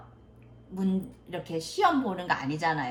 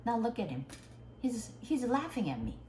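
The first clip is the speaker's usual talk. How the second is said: offended teacher; 4 semitones higher, 5 dB quieter, much slower than usual. Retold or imitated. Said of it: "그랬더니 그 선생님이".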